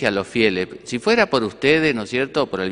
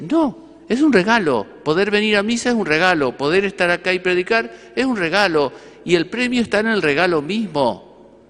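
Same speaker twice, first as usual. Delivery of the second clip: higher, insistent preaching, each line driving home "regalo"; fervent emphasis; 6 semitones higher than usual. Real, not acted. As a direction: proclaim it as the heart of the sermon. Preacher's climax on the gift.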